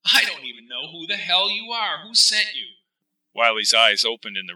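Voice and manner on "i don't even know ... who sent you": higher, rising exasperated outburst; angry. Acted. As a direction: demand to know who they are. Wiley angry at intruder.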